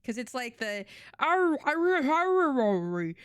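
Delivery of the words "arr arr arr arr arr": loud, high, exaggerated fake Australian; mock a terrible Aussie accent, drawn out; hammed-up American idea of Australian; bad Australian accent. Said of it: "a really bad Australian accent".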